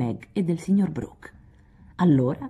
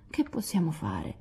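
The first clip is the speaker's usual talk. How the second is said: ready for anything; 8 dB quieter than usual. Acted. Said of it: "pronta a tutto".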